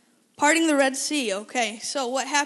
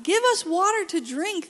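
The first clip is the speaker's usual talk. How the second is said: higher, louder mock demand; 5 semitones higher, 5 dB louder than usual. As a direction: insist like a thirsty crowd. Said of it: "they demanded".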